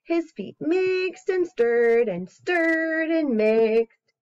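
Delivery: slow, lilting read-aloud; storybook reading. Acted. Reading a story to a baby, slow and sing-song. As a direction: read it like a bedtime picture book.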